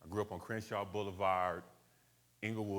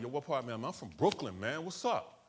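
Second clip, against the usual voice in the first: street back-and-forth; 4 semitones higher than usual. Retold or imitated. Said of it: "They'd be like".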